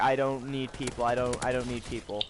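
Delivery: a touch of low, withdrawn gloom; depressed sounding. Retold or imitated. Vlogger retelling their recent low mood, mildly depressed. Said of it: "on the depressed sounding side".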